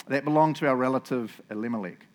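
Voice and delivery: casual, unexcited aside; who-cares nonchalance. Shown as a demonstration. Boaz explains whose land it was, nonchalant. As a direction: mention it as a minor detail. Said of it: "I'll read it in the who really cares way".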